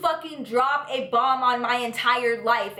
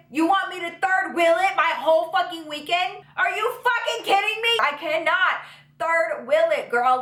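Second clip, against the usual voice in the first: higher, indignant complaining; outraged disbelief; 5 semitones higher than usual. Retold or imitated. Refusing to third wheel for best friend, outraged. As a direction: protest like it's a betrayal.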